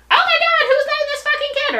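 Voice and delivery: high, loud, loudly pointed exclamation; mock outraged exclaim. To a careless mom in a store, loudly exaggerated outrage. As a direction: exclaim in fake shock so the mom hears. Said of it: "I'll say something not".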